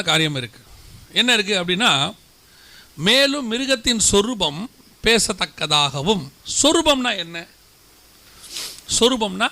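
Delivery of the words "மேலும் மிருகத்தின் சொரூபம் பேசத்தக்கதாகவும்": slow, drawn-out verse quote; slow quoting. Acted. Preacher slowly re-quotes the verse to the church. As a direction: linger on each word of the verse.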